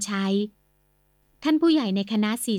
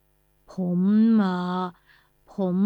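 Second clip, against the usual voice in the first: halting, stumbling start; stammering; 2 semitones lower, much slower than usual. Acted. Uncle stammering an excuse to the family. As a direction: trip over the words, unsure. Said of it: "พูดตะกุกตะกัก".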